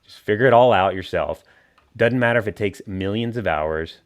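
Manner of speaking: mock pep talk, dripping sarcasm; sarcastic. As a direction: cheer them on sarcastically. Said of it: "we're being sarcastic".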